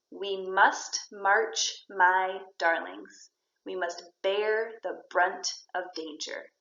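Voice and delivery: slow, measured verse reading; poem reading. Shown as a demonstration. Teacher reading a poem line for students, slow measured verse. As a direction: read the verse slowly, word by word. Reads poem lines aloud.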